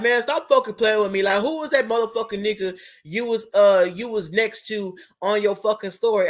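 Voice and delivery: a touch of mock anger, "fucking" punched; hammed-up jealous demand, lightly voiced; imitating angry boyfriend. Boyfriend demanding who was on her story, mildly angry.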